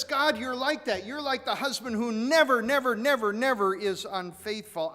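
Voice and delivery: loud, high preaching cry to God; fervent declaration. Acted. Preacher voicing David's praise to God, fervent and loud.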